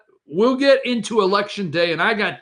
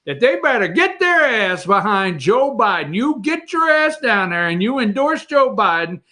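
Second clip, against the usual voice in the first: high, pushy hammed-up Pelosi voice; mock Pelosi ranting; 6 semitones higher than usual. Host imitating Pelosi pushing Biden, high and pushy. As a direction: rant it pitched up, getting higher. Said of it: "And she says".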